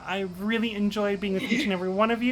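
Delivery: sugary, fast host speech; mock sweetness. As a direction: lay the sweetness on thick. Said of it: "she's doing it again".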